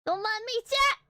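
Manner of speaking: breezily waving it off; cheery call-out. Real, not acted. Streamer calls out to chat to ignore her antics, cheerful.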